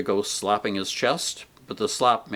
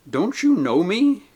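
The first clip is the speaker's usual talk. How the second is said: put-on higher, louder joyful call to an old friend; shouted greeting; 8 semitones higher, 5 dB louder than usual. A narrator's reading. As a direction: call out across the grass. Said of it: "he shouted to the ghost".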